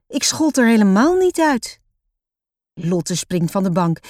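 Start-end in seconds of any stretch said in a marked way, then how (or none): 0.1-1.8 high, loud, indignant denial; angry protest. A narrator's reading. Roos denying to papa she called Lotte names, angry. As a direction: protest crossly with raised pitch and volume. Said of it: "Opeens is Roos ook boos".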